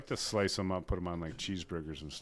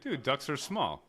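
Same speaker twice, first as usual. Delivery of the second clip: laughing; 6 semitones higher, slower than usual. Real, not acted. Laughing defense.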